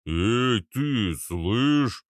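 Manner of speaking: drawn-out big man's hail; gruff bass call. A narrator's reading. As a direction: hail them like a slow heavy. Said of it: "пробасил Арнольд". (окликнуть басом)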